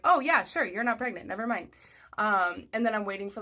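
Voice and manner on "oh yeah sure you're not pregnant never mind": high, loud start, easing off; mock agreement. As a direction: breezily take it all back, mockingly. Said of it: "they're gonna be like".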